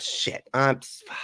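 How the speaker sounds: ordinary talk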